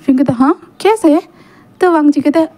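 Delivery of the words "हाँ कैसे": higher-pitched, wondering question; curious surprise. Acted. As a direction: ask with mild astonishment. Wing asks, surprised, how he'll warm him.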